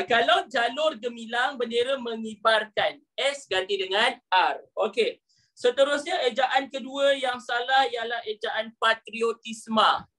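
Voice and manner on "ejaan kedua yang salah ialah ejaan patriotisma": ordinary talk, nothing marked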